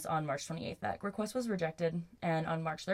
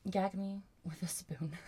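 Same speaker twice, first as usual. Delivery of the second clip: whispered; 3 dB quieter than usual. Real, not acted. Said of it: "whispered disgust aside".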